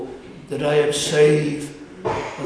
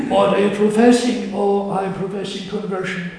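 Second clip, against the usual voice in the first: brisk, louder, quicker questioning voice; mock questioner exchange; 4 semitones higher, 3 dB louder, faster than usual. Preacher voicing an imagined questioner to the congregation, brisk and louder. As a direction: fire off the question fast, then a quick answer.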